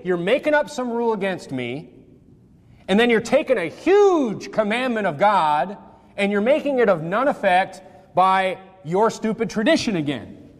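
mildly indignant paraphrase of a rebuke; upset retelling. Retold or imitated. Preacher voicing a rebuke of the rule-makers, mildly upset. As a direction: tell them off with measured exasperation. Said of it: "he's just, he's upset".

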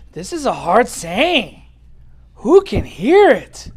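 slow, drawn-out proclamation; deliberate preacher's reading; emphatic scripture reading. Acted. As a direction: read it out slowly, landing hard on the question. Reads disciples' objection from scripture.

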